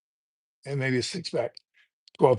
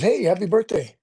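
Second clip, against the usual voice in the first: Michael Scott cheery greeting; 5 semitones higher than usual. Retold or imitated. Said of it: "Michael Scott answers the phone and says".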